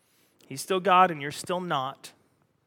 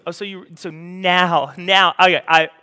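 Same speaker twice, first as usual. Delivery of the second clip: louder, exasperated mock rant; exasperated Jesus; 2 semitones higher, 8 dB louder than usual. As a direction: list the miracles in disbelief. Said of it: "And he goes".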